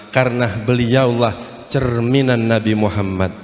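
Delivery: low, measured, weighty delivery; solemn preaching. Real, not acted. Preacher telling congregation to learn from the scholars, low and solemn. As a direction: instruct them gravely.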